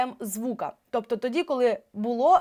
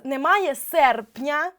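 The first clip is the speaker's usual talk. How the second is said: slow demo; 3 semitones higher, 5 dB louder, much slower than usual. Shown as a demonstration. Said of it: "Ще раз".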